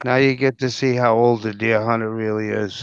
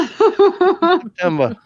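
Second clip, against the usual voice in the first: drawn-out New York "September"; New York accent; much slower than usual. Real, not acted. The speaker repeating his birthday month, New York accent. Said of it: "that New York accent".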